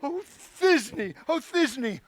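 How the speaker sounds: tiny monster trying fierce; lightly squeaky lady voice; monstrous little voice. Acted. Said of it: "I'll speak in a monstrous little voice".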